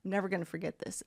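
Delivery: hushed, fast whisper to himself; awed whisper of a lifelong memory. Retold or imitated. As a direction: breathe it out in awe. Whispered awe at a dolphin spectacle.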